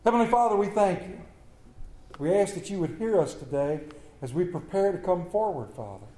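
hushed, earnest prayer voice. Real, not acted. Leads congregation in prayer.

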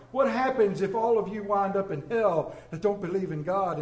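teacher grilling the girl, lightly acted; lightly voiced stern teacher. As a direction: press the girl with mock menace.

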